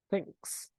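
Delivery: Thanks with th made by the tongue between the teeth, breathy; Thanks as a tongue-between-teeth th demo. Shown as a demonstration. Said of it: "com a língua entre os dentes".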